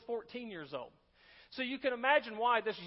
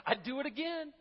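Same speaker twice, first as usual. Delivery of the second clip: a higher voice, words spilling through a chuckle; laughing old man; 6 semitones higher than usual. Retold or imitated. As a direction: laugh as the old man delivers his punchline. Old man laughing at own joke.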